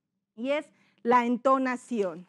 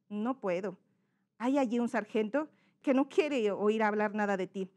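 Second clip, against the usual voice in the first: second character's intonation; 2 semitones lower than usual. Shown as a demonstration. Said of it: "son dos personajes". (negativa contenida del hijo)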